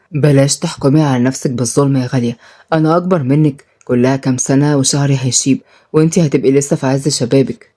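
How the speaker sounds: lightly voiced stern man gone gentle; Shaheen, low tender man. Shaheen reassuring his new wife, low and gentle.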